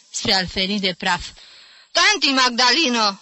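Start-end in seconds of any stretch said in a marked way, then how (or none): 1.9-3.2 higher, louder call with pity; pitying cry. A narrator's reading. Nephew calling to his fussing aunt, pitying cry. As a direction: call out to her, half amused. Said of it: "țipă Jim, râzând cu compătimire".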